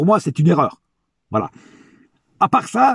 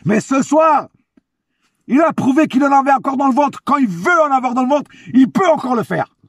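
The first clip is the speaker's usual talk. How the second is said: hyped-up high praise; escalating comedy rant; 4 semitones higher than usual. Real, not acted. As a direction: cheer him on like a fan. Excited praise of Ramos.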